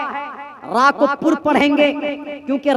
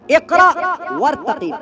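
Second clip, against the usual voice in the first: 1 calling out to recite; 3 semitones higher than usual. Acted. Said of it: "उससे कहा जाएगा इकरा".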